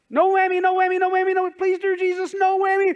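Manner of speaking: high, loud frantic no whammy begging; loud no whammy plea. Retold or imitated. Worshipper trying again, begging God high and loud. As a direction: cry out to God like a game show contestant. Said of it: "So God, I'm gonna try again".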